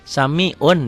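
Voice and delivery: SAMI'UN with a clear n; written form. Shown as a demonstration. Teacher reads it as written, clear n. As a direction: end SAMI'UN on a firm N.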